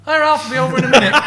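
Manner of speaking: high, loud, fast call from far off; host calling out to a guest across a vast living room. Retold or imitated. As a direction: shout it from the other end of a big room. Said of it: "Jimmy's like".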